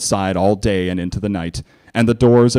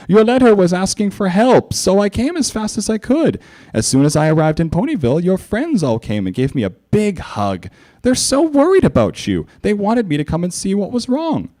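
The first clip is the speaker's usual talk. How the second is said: high, raised regal voice; earnest royal concern; Celestia voice; 11 semitones higher than usual. A narrator's reading.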